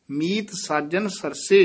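"ਮੀਤ ਸਾਜਨ ਸਰਸੇ" as one closed phrase; measured "ਮੀਤ ਸਾਜਨ ਸਰਸੇ" to a stop; full pause after. Shown as a demonstration. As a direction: finish on "ਸਰਸੇ", then rest. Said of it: "ਇੱਥੇ ਵਿਸਰਾਮ ਹੈ".

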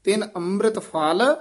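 rising ਫਲ, then a brief break; slight pause after ਫਲ. Shown as a demonstration. Teacher marking the short break, rising ਫਲ then pause. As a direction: lift ਫਲ and hold back briefly. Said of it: "ਇੱਥੇ ਠਮਕ".

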